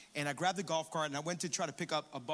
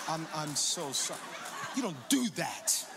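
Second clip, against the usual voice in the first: laughing retelling. Retold or imitated.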